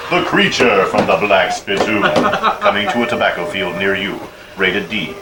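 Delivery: low, dramatic trailer announcer; hammed-up creature-feature narration; mock horror-movie trailer. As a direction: build the monster story like a B-movie promo. Mock movie trailer performed as story.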